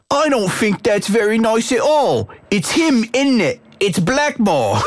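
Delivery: high French-accented voice, put on for the quote; Bobby's accent. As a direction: read it as Bobby in a French accent, pitched well up. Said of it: "he's writing in this accent".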